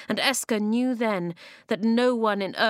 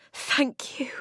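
whispered; 6 semitones higher than usual. A narrator's reading. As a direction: breathe it gratefully. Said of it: "she whispered".

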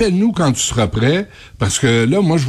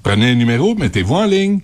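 customer service voice; faster than usual. Retold or imitated. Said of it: "mocking government phone line".

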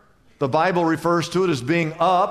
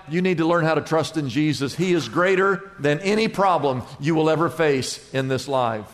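gentle reassurance; 4 semitones lower than usual. Acted. Pastor answers softly.

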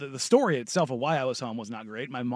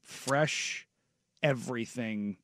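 sultry food talk; 2 semitones lower, 4 dB quieter than usual. Real, not acted. Describing paninis to co-hosts, half-joking sultry murmur. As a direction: savor each food like pillow talk. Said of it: "did anybody else notice that his voice changed".

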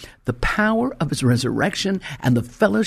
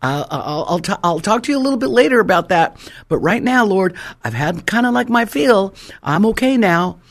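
higher, louder, rushed begging to stop; comically asking God for no more trials; hammed-up plea to God; 6 semitones higher, 5 dB louder than usual. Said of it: "I said".

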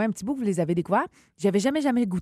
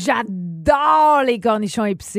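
enthusiastic; 2 semitones higher, 6 dB louder, much slower than usual. Real, not acted. Emphatic enthusiasm.

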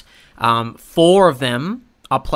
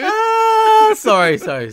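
stoner; 5 dB louder, slower than usual. Pretend. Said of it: "I'm wasted".

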